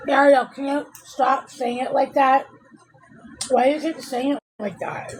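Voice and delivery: exasperated rebuke; irritated scold. Real, not acted. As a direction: snap at her to stop. Annoyed at Ariel's laughing.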